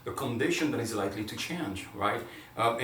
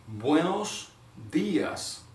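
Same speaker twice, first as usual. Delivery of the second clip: "Buenos" rising, "dias" rising higher then falling; musical model; 6 semitones higher, much slower than usual. Shown as a demonstration. Teacher shows the musical tune of "Buenos dias". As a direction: sing "Buenos dias" like a melody. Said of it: "it's almost musical".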